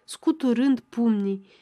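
usual speaking voice

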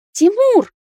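high, loud outraged Тимур!; shrill cry. Acted. Nata calls Timur out, shrill and loud. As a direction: cry his name in outrage. Nata cries out his name.

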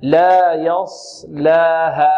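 very slow لا يصلاها, heavy sad, light lam; correct articulation. Shown as a demonstration. Teacher modelling the word for students, correct articulation. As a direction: draw out each part of لا يصلاها. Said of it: "ننطقها هكذا".

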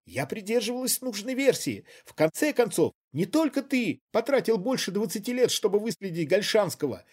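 high, loud, agitated defence; heated outburst. A narrator's reading. Woman yelling her grievances at her accomplice. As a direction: pour out her grievance, still near hysteria.

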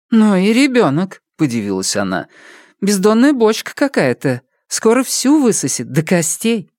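put-on half-scold, half-marvel at a greedy baby; marvelling mother.

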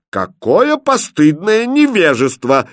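slow, loud royal verdict; pronouncing. Acted. King solemnly condemns the prince, slow loud pronouncement. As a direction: pass judgement from the throne. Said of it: "изрёк король".

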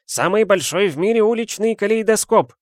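high, loud wail over a broken treasure; anguished cry. A narrator's reading. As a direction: cry out in despair, wringing hands. Owner laments broken kaleidoscope. (отчаянный вскрик)

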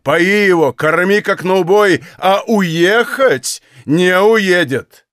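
loud, high furious commands; old master shouts orders about the doctor; old man shouting. Acted. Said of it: "закричал старик".

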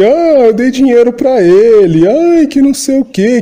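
mock sob-story voice; mock whining. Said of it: "o pessoal tá chorando".

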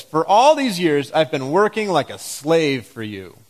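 jealous son complaining to his father, seething; seething jealousy. Shown as a demonstration. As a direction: let the older brother's grudge seethe through. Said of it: "Can you hear the tone of voice? This seething jealousy?".

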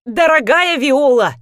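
громче, медленно, почти крича; почти выкрикни, чтобы перебить; almost shouting. A narrator's reading. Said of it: "почти закричала Анна". (Анна почти кричит, перебивая внучку)

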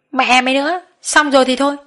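high, heated narrated scolding; scolding shout. A narrator's reading. Boss silencing Hà as she keeps cursing, scolding. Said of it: "Tôi nghe thấy quát".

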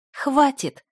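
sharp high angry growl; growling stop. A narrator's reading. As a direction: snap it out, fierce. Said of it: "зарычала я".

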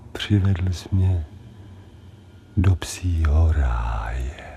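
slow, drifting declarations, fading to a whisper; dreamy tender love. Acted. Anaesthetised dog declaring love to everyone, slow and dreamy. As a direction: melt into drugged bliss, slowly.

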